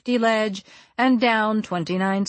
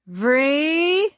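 yelling; 8 semitones higher, 4 dB louder than usual. A narrator's reading. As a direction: call out high and loud. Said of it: "I yelled over my shoulder".

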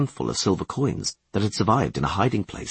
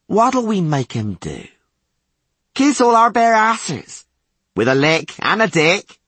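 high, loud bawdy taunts; rowdy jeering guard; 6 semitones higher, 4 dB louder than usual. Acted. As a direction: cackle it at him.

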